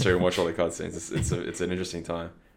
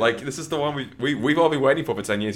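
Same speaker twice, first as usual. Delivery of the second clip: much higher, louder incredulous outburst; retold shocked yelp; shocked disbelief; 8 semitones higher, 6 dB louder, faster than usual. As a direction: squeal it in disbelief at a friend. Retells shock at friend quitting.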